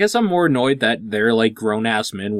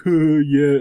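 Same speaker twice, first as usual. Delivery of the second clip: stoner voice; 4 semitones higher, 3 dB louder than usual. Retold or imitated. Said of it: "when you're talking like a stoner".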